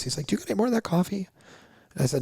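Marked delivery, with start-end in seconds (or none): 0.3-1.3 eager quote. Retold or imitated. Client voiced, eager for coffee.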